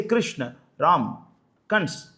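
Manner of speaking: "Krishna" with an A ending, "Ram" and "Kans" without final vowel; Hindi pronunciation. Shown as a demonstration. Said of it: "the Hindi people, they say".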